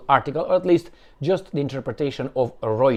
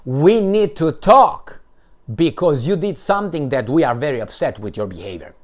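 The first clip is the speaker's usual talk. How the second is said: mock stern principal; 5 dB louder than usual. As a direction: talk down like a principal scolding a pupil. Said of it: "So that's how they talk".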